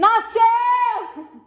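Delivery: shrill, very high, very loud joyful scream. Retelling the moment the newborn squeezed her hand: imitating her own joyful scream. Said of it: "eu dei um grito".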